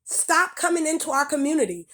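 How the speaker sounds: furious lecture; angry rant. Real, not acted. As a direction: let it all out at them. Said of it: "That's why I spoke angrily".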